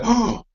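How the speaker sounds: mimicking a sharp intake of breath; mock gasp. Host asking who gasped, mock gasp. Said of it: "Did someone go".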